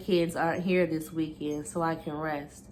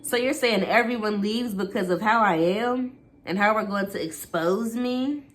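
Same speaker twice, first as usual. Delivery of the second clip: louder, bitter angry comeback; angry retort; 4 semitones higher, 3 dB louder than usual. Acted. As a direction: snap back in anger. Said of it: "There was only anger in his response".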